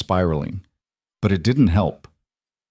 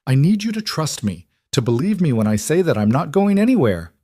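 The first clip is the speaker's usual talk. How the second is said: shouting; 7 semitones higher than usual. A narrator's reading. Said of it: "Vivian shouted".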